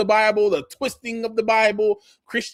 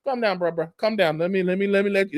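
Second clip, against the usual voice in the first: calming. Retold or imitated. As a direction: settle him down gently. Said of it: "calm that nigga down".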